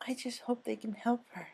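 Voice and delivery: high, hushed whisper; Fluttershy whispering in the waiting room; soft whisper. Acted. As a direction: barely breathe the hope. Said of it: "Fluttershy said softly".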